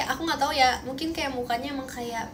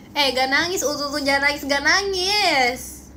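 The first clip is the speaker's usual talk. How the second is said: mock coaxing; 5 dB louder than usual. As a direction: coo a playful "don't cry", louder at the end. Babying coo at teasing chat.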